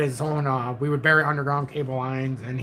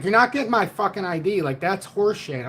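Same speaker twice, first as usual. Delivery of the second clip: retold defiance; 5 semitones higher than usual. Defiant retort to police ID demand.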